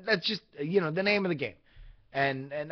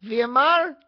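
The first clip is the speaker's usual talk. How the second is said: put-on higher, louder Hispanic accent, rising at the end; her Hispanic-accented voice; 9 semitones higher, 4 dB louder than usual. Imitating the phone woman naming the driver, Hispanic accent. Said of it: "say it in her voice".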